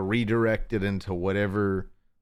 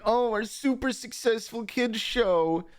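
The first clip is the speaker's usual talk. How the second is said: whiny creators mock; 13 semitones higher than usual. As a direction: whine like a self-pitying millionaire. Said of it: "complaining that".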